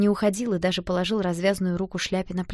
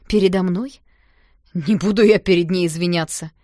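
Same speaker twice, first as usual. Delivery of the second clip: indignant refusal; 7 dB louder than usual. Acted.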